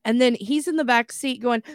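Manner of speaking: ordinary talk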